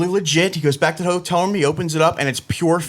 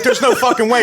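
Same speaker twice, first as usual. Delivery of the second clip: laughing disbelief; 8 semitones higher, 4 dB louder than usual. Retold or imitated. Retelling disbelief at a pill bottle.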